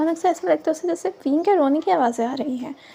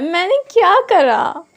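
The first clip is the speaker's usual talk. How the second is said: louder, slow, exasperated mock protest; tense protest; 3 semitones higher, 7 dB louder, slower than usual. A narrator's reading. Wangchi, tense and cornered, asks what he did wrong: loud, slow protest. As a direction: draw it out, baffled and strained. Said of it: "अब वांगची tense होता है".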